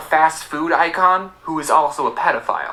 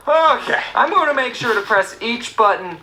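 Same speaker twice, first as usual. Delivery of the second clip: higher, slower, extra careful; mock careful self-talk; 7 semitones higher than usual. Retelling his careful attempt at the alarm code, higher. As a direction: talk yourself through it very carefully.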